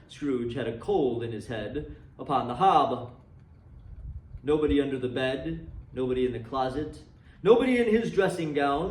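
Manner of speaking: measured storytelling voice, reading a classic aloud; story narration. A narrator's reading. Narrator reading A Christmas Carol to listeners, storytelling voice. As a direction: tell it like a fireside ghost story.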